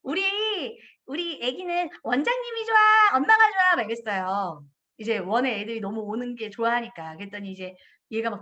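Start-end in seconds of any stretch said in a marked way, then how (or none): 0.0-3.8 put-on coaxing baby talk rising higher, louder at the end; lightly voiced director asking a toddler to choose; teasing question to a child. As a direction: coax the toddler playfully. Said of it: "제가 이랬어요".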